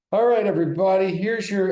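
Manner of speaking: mock a forced, fake-cheerful video intro; overdone announcer voice that isn't really him; stiff script read. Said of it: "and I was not me".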